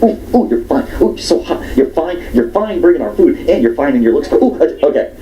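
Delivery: high flirty teasing compliments; flirty ooh. Retold or imitated. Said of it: "I'm getting carried away".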